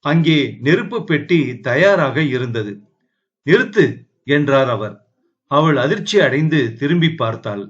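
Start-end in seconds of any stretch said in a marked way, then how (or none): 3.5-3.8 sudden raised command to halt her; sharp cry to stop. A narrator's reading. Man rushing in to stop the girl, loud commanding cry. Stopping a woman's suicide.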